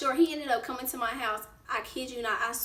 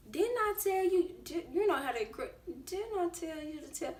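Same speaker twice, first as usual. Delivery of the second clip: scolding mom; 4 semitones higher, 5 dB quieter than usual. Retold or imitated. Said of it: "She said".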